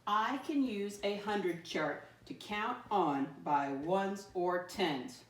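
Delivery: slow, read together with the class; slow unison read-along; slow choral reading. Shown as a demonstration. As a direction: lead the class through it slowly. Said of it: "Read it with me again".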